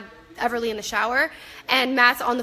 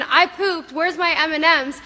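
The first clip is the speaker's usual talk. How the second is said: put-on mild toddler voice; 3 semitones higher than usual. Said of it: "running around with a dirty butt screaming".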